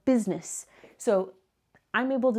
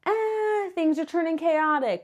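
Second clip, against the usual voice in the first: mock panic; 5 semitones higher, slower than usual. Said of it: "make me go".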